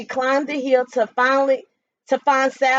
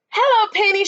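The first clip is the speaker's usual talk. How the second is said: higher, bright hen greeting; clucking hen; 8 semitones higher, 4 dB louder than usual. A narrator's reading. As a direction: chirp it like a hen. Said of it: "she clucked".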